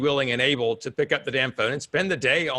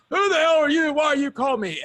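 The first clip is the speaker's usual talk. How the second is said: high, louder mock outrage; irate call recipient; 10 semitones higher, 4 dB louder than usual. Irate prospect to a sales caller, mock outrage. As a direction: snap it in a high, indignant voice. Acts out hostile cold-call response.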